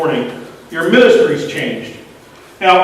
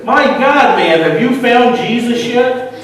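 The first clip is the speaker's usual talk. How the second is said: a mildly harsh, raised, slower demand; half-acted exasperated preacher pressing hard; 3 semitones higher, slower than usual. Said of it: "in a really harsh tone".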